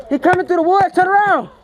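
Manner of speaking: calling out. Real, not acted. Player telling teammate to turn around, calling out. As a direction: call a warning across to a teammate. Warning a teammate during the game.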